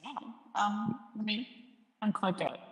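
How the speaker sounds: hollow voice changer echo. Real, not acted. Host fumbling to unclick the effect, echoing voice. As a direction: voice at the bottom of a well. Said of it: "Sounds like you're at the bottom of a well".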